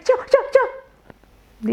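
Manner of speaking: high, slow, drawn-out eager yo yo yo. Retold or imitated. Rival candidate eagerly volunteering to the lawyer, high drawn-out yo. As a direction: mimic her jumping in first, drawn out and high.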